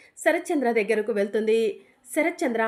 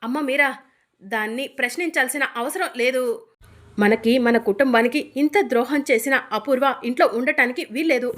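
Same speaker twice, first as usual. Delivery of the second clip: louder, firm, final verdict; stern angry ruling; 5 dB louder than usual. Acted. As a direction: lay down the law to the family. Husband throws out scheming wife.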